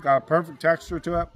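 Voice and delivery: talking with a mouth full; words round a bite of pie. Real, not acted. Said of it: "with my mouth full".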